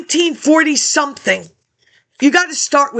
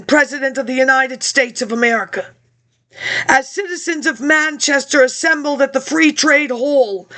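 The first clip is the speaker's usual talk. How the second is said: reading a historic address aloud; measured formal recital of an old letter. Shown as a demonstration. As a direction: read it like a 19th-century address to a president. Reads Manchester workers' address aloud.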